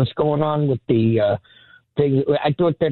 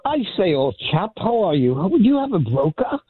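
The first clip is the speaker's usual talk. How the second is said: put-on British accent; 5 semitones higher than usual. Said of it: "I figured I'd do a little accent".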